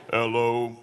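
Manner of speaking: a low, laughing imitation of a sick wife's hello. Preacher imitating his sick wife's low hello. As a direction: drop the voice way down for the sick wife. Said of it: "her voice was way down there".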